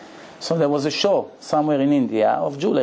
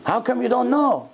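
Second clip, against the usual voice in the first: astonished; 10 semitones higher than usual. Retold or imitated. Friend shocked at her ignorance.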